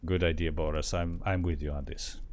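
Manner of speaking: put-on low Russian accent. Backing Boris, in a low Russian accent.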